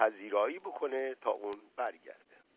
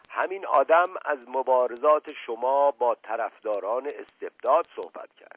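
same strange voice; 3 semitones higher, 7 dB louder than usual. Acted. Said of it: "با همان لحن و صدا ادامه داد".

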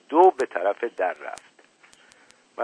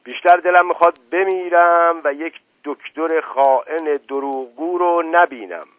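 higher, louder, anger-choked voice; 6 semitones higher, 6 dB louder than usual. A narrator's reading. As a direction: spit it at the traitor doctor. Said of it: "با صدای گرفته از خشم گفت". (با صدای گرفته از خشم)

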